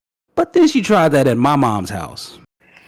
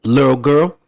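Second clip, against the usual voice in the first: stern grandma; 5 dB louder than usual. Retold or imitated. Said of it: "once you hear that".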